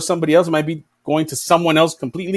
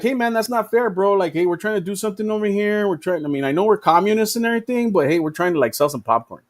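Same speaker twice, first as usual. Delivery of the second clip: higher, a touch pleading; lightly voiced hurt kid asking for fairness; mildly pleading kid; 3 semitones higher, 3 dB quieter than usual. Playground story, China stand protests, mild mock plea. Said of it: "And then China's like".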